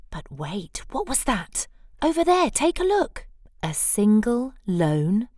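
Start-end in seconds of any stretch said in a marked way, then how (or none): 2.0-3.3 excited. A narrator's reading. Narrator excitedly points at cone.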